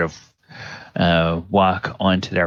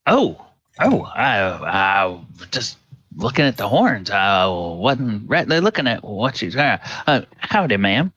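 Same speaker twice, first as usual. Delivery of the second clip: flustered farmer. Acted. Farmer flustered, greets minotaur.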